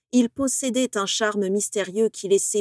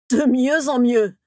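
louder, slow, seething sarcasm; angry outburst; 4 semitones higher, 6 dB louder, slower than usual. Acted. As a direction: spit it out slowly in barely held fury. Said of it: "bondit Rogue".

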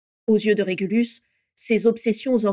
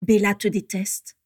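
slow, understated boldness; hardiesse. A narrator's reading. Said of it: "déclara-t-il avec hardiesse". (avec une hardiesse posée)

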